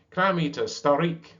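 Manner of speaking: high, loud mocking yell; yelling jeer. Gulls yelling insults at the walrus, loud. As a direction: scream the insult like a mob. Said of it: "yelling and screaming".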